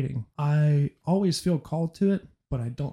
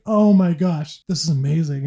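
excited; 3 semitones higher, 6 dB louder than usual. Retold or imitated. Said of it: "And I'm like".

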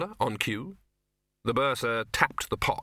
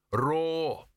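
mild, raised, held roar; half-hearted roar; 6 semitones higher than usual. A narrator's reading. Troll distracted by thoughts of Ruby, feeble roar. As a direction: roar with no nastiness in it. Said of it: "couldn't get the right amount of statutory nastiness".

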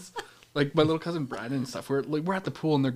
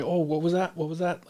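imitated drive-thru worker; 4 semitones higher than usual. Acting out drive-thru worker not hearing.

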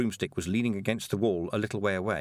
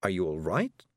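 frantic; 3 semitones lower than usual. A narrator's reading. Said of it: "frantically waving smoke away".

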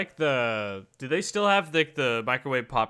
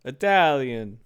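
mock Italian accent on one word; hammed-up bad Italian; a badly faked Italian accent; horrible Italian accent; 4 dB louder than usual. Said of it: "horrible Italian accent".

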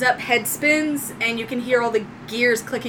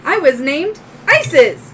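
robot voice; 5 semitones higher, 7 dB louder than usual. Acted. Droid voice.

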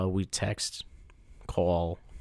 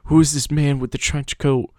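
suspicious; 6 semitones higher, 7 dB louder than usual. Retold or imitated. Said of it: "You're like".

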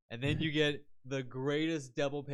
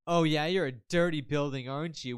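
loud, teasing dominatrix; 3 semitones higher, 5 dB louder than usual. Acted. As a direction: scold it like a whip-cracking mistress. Voicing dominatrix character.

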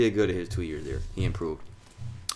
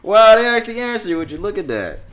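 amazed; 12 semitones higher, 10 dB louder than usual. Real, not acted. Amazed the call got through.

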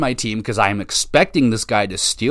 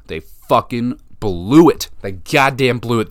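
slow, punched and louder, fed up; exasperated outburst; 4 dB louder than usual. Real, not acted. Fan ranting at his team after a bad loss, angry. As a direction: spit it out at the team that blew it.

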